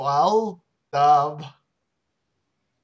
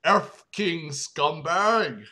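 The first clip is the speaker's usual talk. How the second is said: slow menace; slower than usual. Acted. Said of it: "added Light's dad".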